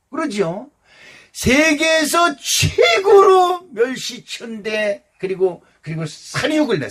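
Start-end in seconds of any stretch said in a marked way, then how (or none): 1.3-5.0 최고로 stretched slow, higher and louder with a crying edge; slow preaching shout. Acted. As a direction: cry out 최고로 멸시천대 slowly, voice breaking. Preacher hammers the point again.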